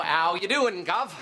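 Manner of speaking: a light Cockney greeting; cheery Cockney "Ow, you doing, Gov?"; Cockney accent. Acted. Coworker practicing a Cockney accent on Dave, Cockney accent. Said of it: "practicing my Cockney accent".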